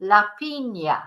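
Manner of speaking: "piña" as PEEN-ya; ñ sound. Shown as a demonstration. Teacher demonstrating the accented N, "piña" as peen-ya. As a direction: clear ny in the middle of "piña". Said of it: "it's a ñ sound".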